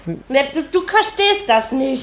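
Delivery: high, slow whiny lament; mock melodrama. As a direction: ham up the heartbreak, drawn out. Mock heartbroken fan plea.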